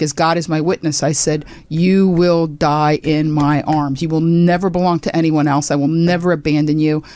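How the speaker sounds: a hint of melodrama, swearing before God; Scarlett O'Hara vow. Comic telling the story of vowing to keep her dog, mock-dramatic. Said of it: "I had a Scarlett O'Hara".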